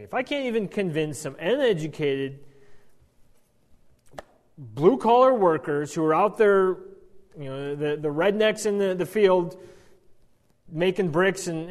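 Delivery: building indignant whine; exasperated complaint. Retold or imitated.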